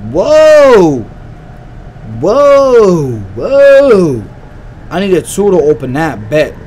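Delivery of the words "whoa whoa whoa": loud drawn-out whoa, fading; big stunned whoas; startled whoa. Real, not acted. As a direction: react with real shock. Startled by something in the game.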